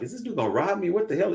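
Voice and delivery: high-pitched mock alarm; alarmed onlooker. Imagined alarm of store person.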